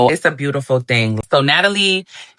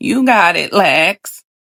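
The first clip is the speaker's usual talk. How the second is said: voice trembling with nerves, shaky and scared; 4 semitones higher than usual. Speaker retells Scotty cheering Lex on: imitating Scotty's shaky, scared voice. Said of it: "Voice shaking like a stripper".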